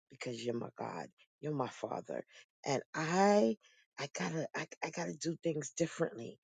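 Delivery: reverent surrender. Retold or imitated. Prayer of surrender to God.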